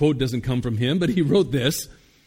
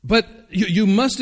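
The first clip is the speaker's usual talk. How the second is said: imploring; 6 semitones higher, 4 dB louder than usual. Acted. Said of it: "implored his companion".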